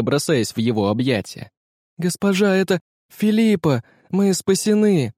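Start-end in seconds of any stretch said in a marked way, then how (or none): 2.0-5.1 excited cry. A narrator's reading. Servant announces rescue.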